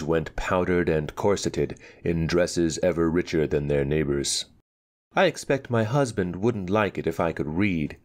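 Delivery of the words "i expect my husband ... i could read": complacent. Acted. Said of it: "she said complacently".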